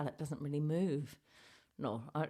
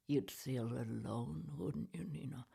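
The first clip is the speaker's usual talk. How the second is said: whisper; 3 semitones lower, 4 dB quieter than usual. Acted. Ventriloquist's puppet murmurs conspiratorially.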